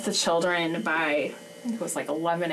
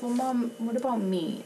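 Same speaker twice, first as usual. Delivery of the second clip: put-on child's plea; 4 semitones higher, 3 dB quieter than usual. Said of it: "Lydia looks at me and goes".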